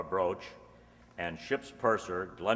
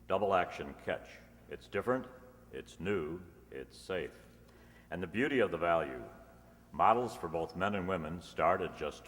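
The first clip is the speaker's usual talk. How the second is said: polished radio ad pitch; commercial read. Acted. Announcer selling lighters to radio listeners, polished ad read. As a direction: sell the lighters to the listeners, smooth and upbeat.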